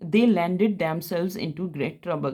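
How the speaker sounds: reads the rule out slowly for notes; slow, clear English rule read to students; slow dictation read. Shown as a demonstration. Teacher reading a grammar rule aloud to the class, slow and clear.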